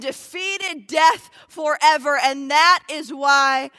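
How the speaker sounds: slow, emphatic sermon delivery; punched key words, measured preacher cadence; preaching. Real, not acted. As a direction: proclaim it in weighty phrases with pauses. Preaches the gospel.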